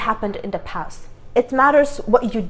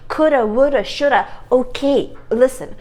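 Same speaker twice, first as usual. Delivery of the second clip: annoyed. Real, not acted. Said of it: "I get so annoyed".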